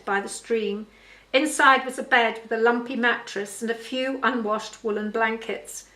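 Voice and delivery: measured storytelling read; story narration. A narrator's reading. Author reads her father's story to listeners, story narration. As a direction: read the tale aloud clearly.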